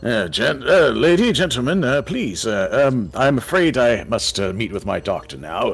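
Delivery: put-on flustered old man stammering to the gnome. Old man shoos the customers.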